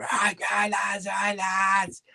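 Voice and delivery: hollering a cheery hello at the lads; mock shouted greeting. Teammate bursting out of the shower, shouting high.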